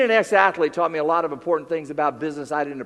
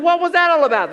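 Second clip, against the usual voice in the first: mock bewildered question; 9 semitones higher, 8 dB louder than usual. Quoting puzzled colleague.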